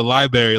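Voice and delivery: library said as "LIE-berry"; library turned into "li-berry"; berry mispronunciation. Retold or imitated. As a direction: say library without its first R, like a fruit. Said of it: "what fucking fruit is that".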